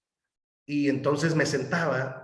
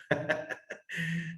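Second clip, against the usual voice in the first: soft laugh; 4 semitones higher, 7 dB quieter than usual. Real, not acted. Laughs after refusing candidacy.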